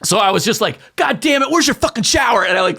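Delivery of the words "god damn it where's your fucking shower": high-pitched mock irritation; retold exasperation. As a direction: act out a fed-up demand, pitch raised. Storming in covered in cream.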